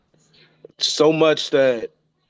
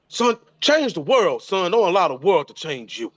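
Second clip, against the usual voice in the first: imitating father's advice; 4 semitones higher than usual. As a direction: voice his father handing down wisdom, lightly. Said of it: "my father would say".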